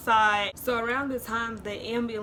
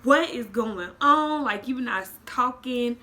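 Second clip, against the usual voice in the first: higher, louder and slower worried demand; alarmed mom; 3 semitones higher, 7 dB louder than usual. Retold or imitated. Mom on the phone demanding answers, alarmed. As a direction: press for answers, panicking. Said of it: "she's like".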